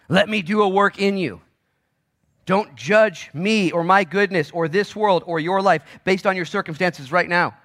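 high, loud preacher's plea as God; God's urgent command. Acted. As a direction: proclaim it forcefully as God speaking.

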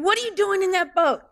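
high, mock-angry yell from the shore; hammed-up scolding shout across the water; a scolding call that climbs high; mock screaming. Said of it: "Is he screaming at them from the shore".

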